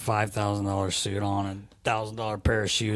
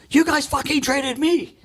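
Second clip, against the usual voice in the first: retold player retort, laughing; 14 semitones higher than usual. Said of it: "he finally turns and he goes".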